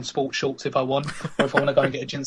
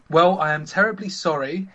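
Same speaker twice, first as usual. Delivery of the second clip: lightly posh lady, voiced up; a hint of posh. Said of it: "if you don't understand posh".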